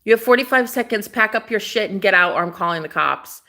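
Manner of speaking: clipped angry order; ultimatum. Retold or imitated. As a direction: rattle off the deadline like a threat. Ordering intruder out.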